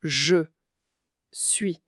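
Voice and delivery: Je, pause, then a whispered suis. Shown as a demonstration. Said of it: "Ce sont U I, un peu comme dans fruit ou pluie".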